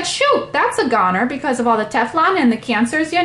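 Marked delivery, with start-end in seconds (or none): 0.0-1.2 mock dismay. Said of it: "I said".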